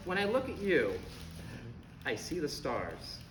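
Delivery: gaze and say it softly; soft and dreamy. Acted. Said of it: "New choice".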